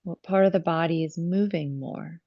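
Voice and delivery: calm yoga teacher guiding the breath, with long pauses; measured phrases, leaving space to breathe; guided breathing meditation. Real, not acted. Yoga teacher guiding students' attention to the breath, calm meditative delivery.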